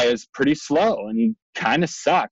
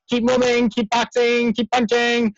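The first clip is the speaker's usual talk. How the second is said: corner trainer yelling; 8 semitones higher than usual. Retold or imitated. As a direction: drive the fighter on.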